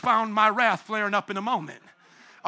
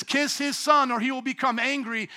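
pitched up, with a push on son; higher, brisker reading; 4 semitones higher than usual. Shown as a demonstration. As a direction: read it again higher, like a challenge. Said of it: "Look at it again".

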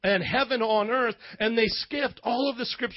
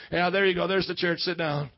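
lower, dismissive usher; a cold, lower wave to a seat; curt brush-off; 4 semitones lower than usual. Retold or imitated. Usher brushing off a poor homeless man, lower and curt. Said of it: "just be like".

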